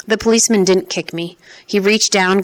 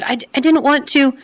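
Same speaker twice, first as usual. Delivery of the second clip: panting; 8 semitones higher than usual. Acted. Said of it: "I was panting for breath".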